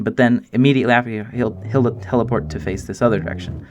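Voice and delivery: rushing through it, tripping over words; excited, talking really fast. Real, not acted. Creator rushing to explain the cow's teleport, excited and fast. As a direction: hurry through the explanation, stumbling a little. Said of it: "talking really fast".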